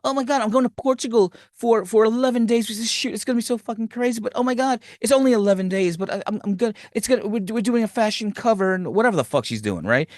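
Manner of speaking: high, excited gushing friend voice; gushing valley girl. Retold or imitated. Successful friend bragging about her Portugal trip, gushing high. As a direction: gush like a bubbly valley girl. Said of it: "She said".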